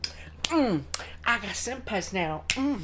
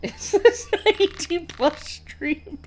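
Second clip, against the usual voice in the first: mock shocked; 6 semitones higher, 6 dB louder, slower than usual. Teasing mock-shocked question.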